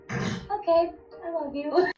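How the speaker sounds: forced sweet reply. Real, not acted. Forced reply to crying boyfriend.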